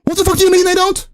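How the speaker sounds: rising, incredulous outburst; can't believe what he's reading; 1 exasperated disbelief. Real, not acted. Streamer reads the patch notes to his guest, incredulous and exasperated.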